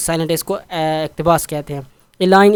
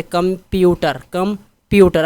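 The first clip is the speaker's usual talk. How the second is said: कंप्यूटर with the middle syllable प्यू stressed; much slower than usual. Shown as a demonstration. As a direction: lean on प्यू inside कंप्यूटर. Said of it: "प्यू पर जोर ज़्यादा दे रहा है".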